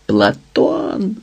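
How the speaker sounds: Platon's name called out high; shout. A narrator's reading. Стас кличе Платона з екрана, гукає. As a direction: call his name across the room at the screen. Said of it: "закричав Стас на все горло".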